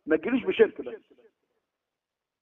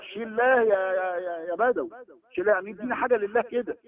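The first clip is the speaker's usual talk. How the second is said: mock beggar's call; 3 semitones higher than usual. Imitating a beggar calling on saints.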